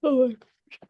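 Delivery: real yawn running through the words. Real, not acted. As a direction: talk through a high, sighing yawn. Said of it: "I don't know why I'm yawning so much".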